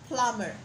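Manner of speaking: Plumber with no B sound; silent B demo. Shown as a demonstration. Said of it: "take out the B".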